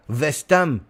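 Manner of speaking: "West Ham" with a V for the W and a silent H; French-accented "West Ham", opening on a V sound. Acted. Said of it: "we don't say in French the letter W".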